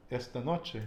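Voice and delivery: "Esta noche" stressed ES-ta NO-che; "Esta noche", both final vowels unstressed; penultimate stress. Shown as a demonstration. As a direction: lean on the first syllable of "Esta" and of "noche". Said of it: "we put the emphasis on the penultimate".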